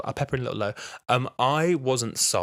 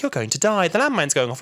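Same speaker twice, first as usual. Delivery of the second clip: mock computer warning; 8 semitones higher, 7 dB louder than usual. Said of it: "computer is like".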